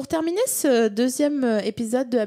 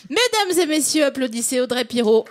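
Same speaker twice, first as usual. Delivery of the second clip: raised announcer voice; grand entrance announcement. Acted. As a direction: call the crowd to applaud. Host calls applause for guest. (annonce d'entrée solennelle)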